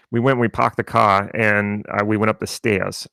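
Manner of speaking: lightly put-on New England accent; imitating Boston accent. Joking with his wife's family in their own New England accent. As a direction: drop the r's, a playful New England accent as an in-joke. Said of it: "I actually started imitating their accent".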